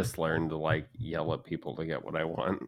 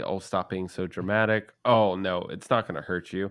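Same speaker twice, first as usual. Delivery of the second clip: exaggerated cartoon intonation; 3 semitones higher, 5 dB louder than usual. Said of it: "people tell me".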